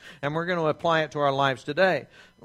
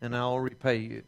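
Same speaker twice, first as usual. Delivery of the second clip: pleading; 3 semitones lower, slower than usual. Retold or imitated. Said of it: "and he said".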